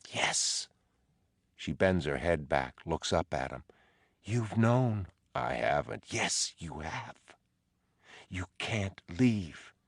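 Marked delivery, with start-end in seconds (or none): 0.1-0.7 whisper. Acted. Whispered reply. 4.2-9.7 insistent wife's voice. Acted. Dolores pressing Teddy.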